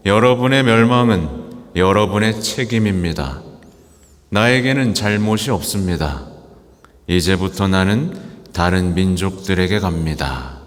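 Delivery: resolute decisive declaration; firm. Retold or imitated. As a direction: say it firmly and finally. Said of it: "아주 단호하게".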